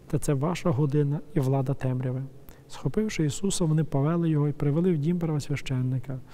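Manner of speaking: measured, even reading of the Gospel; scripture reading. Acted. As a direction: read the passage steadily, like at a liturgy. Reads the Gospel aloud. (урочисте читання Євангелія)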